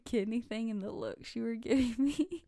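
giggling through the words; fighting back laughter as she talks; stifled giggles. Real, not acted. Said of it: "trying not to laugh right now".

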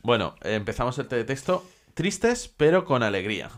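muffled behind a hand over mouth. Real, not acted. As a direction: talk through covered mouth. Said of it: "Pero con la boca tapada".

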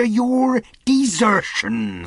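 "desertion" high, loud and drawn out; emphasis on desertion. A narrator's reading. Silver blames the captain, heavy stress on "desertion". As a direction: lean hard and slowly on "desertion". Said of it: "laying a particular emphasis upon".

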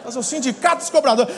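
ordinary talk

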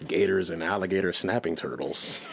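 documentary voice. Pretend. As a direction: narrate it like National Geographic. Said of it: "that's my documentary voice".

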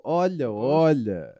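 "olha, olha" drawn out slow, knowing and low; knowing innuendo tone. Shown as a demonstration. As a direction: say "olha, olha" slowly, as if you know the secret. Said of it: "o tom que a gente quer aqui é o". ("olha, olha" lento e sugestivo)

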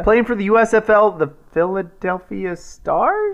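excited. Real, not acted. Excitedly introduces friend of show.

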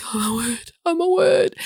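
hushed first, then high-pitched awe; stunned amazement. Retold or imitated. Applicant finally told she is done, amazed. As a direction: repeat it in growing disbelief. Acting her amazement at success.

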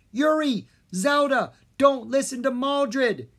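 loud, high desperate shout; yelling. A narrator's reading. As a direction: call out to them urgently. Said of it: "Jean yelled".

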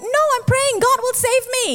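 hammed-up stubborn high voice; stubborn refusal. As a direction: wave away the rescue, self-righteous. Stubborn man refuses rescue.

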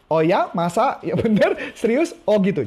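interested surprise. Shown as a demonstration. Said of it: "Nah, itu rumusnya".

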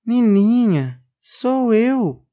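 high, small timid doll voice; high tiny toy voice; doll's voice. Acted. Doll speaks from wardrobe.

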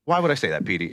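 even, unforced imitation of dad; calm retold dad. Imitating dad answering Petey before the smack, calm. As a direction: keep it level, imitating a calm father. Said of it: "he said it so calm".

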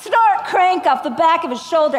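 lightly voiced melodramatic peer pressure; mock urgent push; cheesy TV line. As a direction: deliver like a bad after-school special. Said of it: "It would be like".

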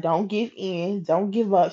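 soft, steady reassurance; encouraging. Retold or imitated. Coworker encouraging her at the desk, softly reassuring. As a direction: gently urge them on. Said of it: "encouraging me".

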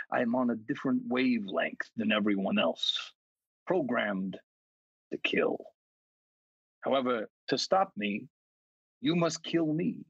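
a hint of a sinister monster savouring each line; understated eerie reading of a killer's letter; creepy killer voice. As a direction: read the letter as the killer, lightly menacing. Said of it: "That was the best voice for that".

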